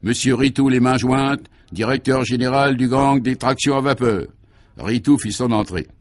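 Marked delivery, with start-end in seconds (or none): 0.0-4.3 a formal, ringing usher's announcement; ceremonious announcement. Acted. Usher announcing the gangster's entrance, ceremoniously. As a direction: announce him like a grand guest at a ball. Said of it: "annonça cérémonieusement".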